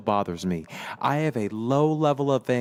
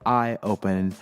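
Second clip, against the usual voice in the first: slow, dreamy reading of his notes; poetic reading. Acted. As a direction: read it like a spoken-word poem. Reads his poetic notes aloud.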